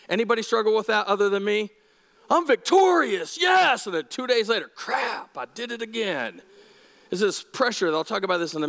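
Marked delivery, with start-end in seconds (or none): 2.3-3.8 higher and louder, hammed-up triumph; mock victory cheer. Believer beating temptation, hammed-up cheer. 4.7-6.4 softer, sheepish letdown; mock deflated groan. Believer failing again, mock deflated. Mock defeat after relapse.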